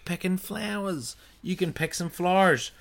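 Irish lilt, pitched high on flowers; Irish accent. Real, not acted. Correcting herself while listing spring activities, Irish accent. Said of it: "in an Irish accent and then an Aussie accent".

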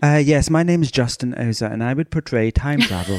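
put-on a light, loosely done English accent; imitating Justin in a mild English accent. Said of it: "I gave you an English accent".

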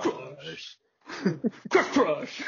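Pokemon call. Retold or imitated. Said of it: "Crush would be like".

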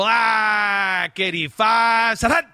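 loud, high shouted snap count; quarterback cadence call. Shown as a demonstration. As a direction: bark the signals like a quarterback at the line. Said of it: "So that's how he goes".

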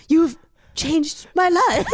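slow, laughing mock melodrama; dramatic proclamation. Friend pretending to dramatically thank a stranger, hammed-up. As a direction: play it like a soap heroine, slowly. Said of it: "a dramatic turn and a look".

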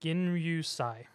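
slow, careful say. Shown as a demonstration. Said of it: "Say the first part again".

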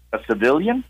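civilian? with a rising, doubting tune; incredulous echo. Retold or imitated. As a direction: echo it back as a puzzled question. Clerk repeats in disbelief.

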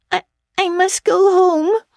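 dogged and dazed; stupidly but determinedly. Acted. Tipsy girl refusing her friend's tea, stubborn and dull. Diana repeats.

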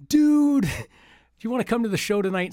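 a buddy's goofy invite; imitating G's Wheeze. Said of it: "I'm gonna kill these imitations".

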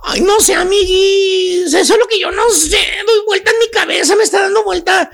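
hammed-up teary lament, half crying; mock whimpering. Chuntara confessing to her friend she still misses him, mock tearful. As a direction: whine it like a heartbroken gossip. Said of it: "Y te dice la chuntara".

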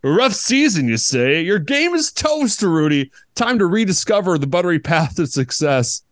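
grand sentient croissant, teasing. Acted. Croissant character voice.

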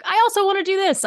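high mock-eager plea; whiny high voice. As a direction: whine it up high like a kid. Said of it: "I'm like".

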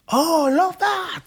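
high-pitched mock swoon over a song; delighted reaction. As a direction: act out an excited singer loving a tune. Acting out singer's delighted reaction.

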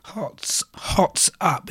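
slightly croaky, hoarse throat. Real, not acted. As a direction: speak through a croaky throat. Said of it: "Excuse my croaky voice".

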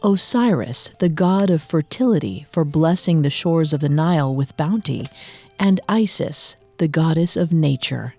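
story narration. A narrator's reading. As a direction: narrate like an ancient legend. Dramatic myth narration opening.

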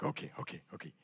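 small, hushed, low okays; barely voiced, talking himself into it; meek nervous agreement. Scared jumper giving in to the instructor, meek.

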